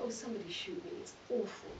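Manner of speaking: soft, half-whispered groan of boredom; mock despair, murmured. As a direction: sigh it out like a trapped office worker. Retold despair at law job.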